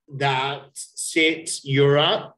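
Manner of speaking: "that's six euros" slowly, word by word; slow model pronunciation. Shown as a demonstration. Teacher models corrected phrase slowly.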